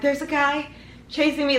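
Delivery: high, halting retold plea; barely able to talk. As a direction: struggle to get words out, lightly acted. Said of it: "I couldn't even talk".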